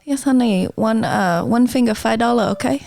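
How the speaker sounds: mock Asian-accented manicurist quoting a price; put-on Asian accent. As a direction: play the nail lady with an Asian accent. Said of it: "I can do a very good accent".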